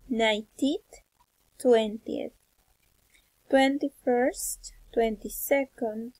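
slow, evenly spaced ordinals; measured classroom counting; teacher's word list. Shown as a demonstration. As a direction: recite each number separately for learners. Recites ordinals for learners.

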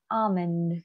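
Almond with no L, "ah-mund"; British silent L. Shown as a demonstration. Teacher shows the UK version, Almond with silent L. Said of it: "người ta không đọc âm L".

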